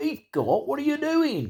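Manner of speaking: put-on thick, broad, nasal Burnley accent, very high, swooping. Imitating how a man who could be tough used to go on, in a really strong, nasal Burnley accent. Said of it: "He had this really strong Burnley accent".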